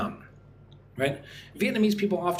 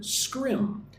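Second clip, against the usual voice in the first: "Scrim" isolated on a high pitch; stressed syllable alone; 9 semitones higher than usual. Shown as a demonstration. Teacher picking out the second syllable, stressed and high. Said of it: "Put the stress on the second syllable".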